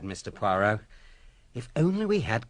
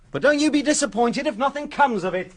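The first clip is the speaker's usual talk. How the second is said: condescending; 9 semitones higher, 4 dB louder than usual. Acted. Inspector brushes off Poirot's idea.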